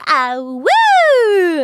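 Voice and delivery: howling like a wolf pup. Shown as a demonstration. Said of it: "do, like, a little howl".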